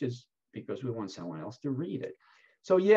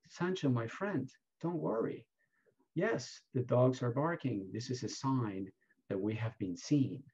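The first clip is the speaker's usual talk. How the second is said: softer, steady, mildly reassuring; calm reassurance; 6 dB quieter than usual. Retold or imitated. Don Quixote calms his worried sidekick, softly reassuring. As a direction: soothe a worried friend, gently. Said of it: "says very calmly".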